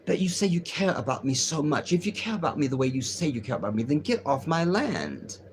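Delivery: lightly voiced firm challenge; a hint of her pointed, accusing tone; mild impression of a woman confronting him; imitating the Palestinian woman. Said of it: "this is how she speaks".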